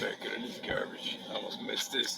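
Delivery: hushed whisper, keeping it secret. Real, not acted. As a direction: whisper so nobody in the aisle hears. Sneaking around the store aisle.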